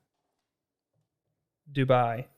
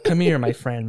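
loud vendor call; pushy street vendor; 7 dB louder than usual. Retold or imitated. Vendors in the gold souk calling out, louder. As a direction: hawk it at the tourists. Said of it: "They're like".

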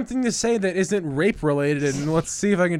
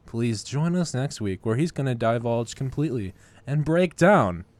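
mock radio promo; 3 semitones lower than usual. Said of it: "radio voice".

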